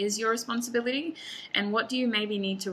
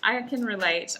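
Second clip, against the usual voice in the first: louder, amused admission coming out of laughter; 4 dB louder than usual. Real, not acted. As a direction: own up with a laugh still in the voice. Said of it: "I'm laughing".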